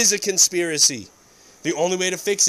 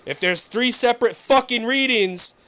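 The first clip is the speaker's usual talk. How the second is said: angry quote; 3 dB louder than usual. Retold or imitated.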